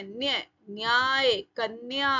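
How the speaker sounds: न्याय, कन्या with a half n gliding into y; joined consonants. Shown as a demonstration. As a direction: run the half न straight into य in न्य. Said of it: "आधा ना और य".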